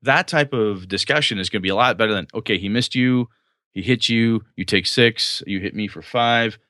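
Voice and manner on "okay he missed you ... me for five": matter-of-fact damage tally; just math. Shown as a demonstration. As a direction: count off hits with no drama. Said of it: "That is just math".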